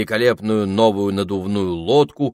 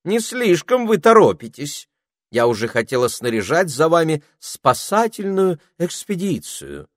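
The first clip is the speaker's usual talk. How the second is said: high, loud scolding spider voice; grumpy spider; 10 semitones higher, 5 dB louder than usual. A narrator's reading. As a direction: greet them with fussy reproach. Spider grumbles at children.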